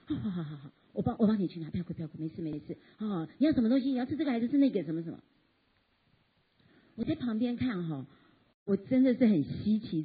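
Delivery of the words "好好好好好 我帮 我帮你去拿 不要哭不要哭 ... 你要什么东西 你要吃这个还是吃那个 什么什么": mother giving in. Retold or imitated. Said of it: "第三幕呢，就是妈妈说".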